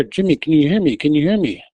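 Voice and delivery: retold yelling. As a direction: half-shout to rouse him. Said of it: "yelling in his ear".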